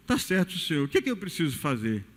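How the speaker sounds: meek, hushed reply to the Lord; Adam answering softly. Acted. Adão responde humilde a Deus. (Adão responde a Deus, baixinho e submisso)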